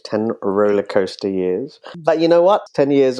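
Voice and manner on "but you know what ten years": high, loud upbeat burst; excited. Real, not acted. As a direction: lift it with sudden enthusiasm. Guest brightens with enthusiasm.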